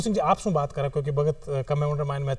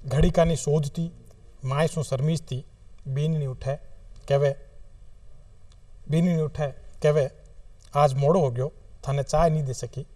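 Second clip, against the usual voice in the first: poetry recitation. Acted. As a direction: recite it line by line, unhurried. Recites own short poem. (कविता पाठ, ठहर-ठहर र)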